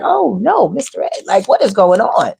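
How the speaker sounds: put-on a young girl recoiling from an old suitor; mock shocked young girl. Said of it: "They like".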